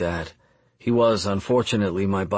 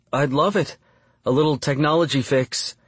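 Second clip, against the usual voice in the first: excited; 5 semitones higher than usual. Acted. Excited reply to movie offer.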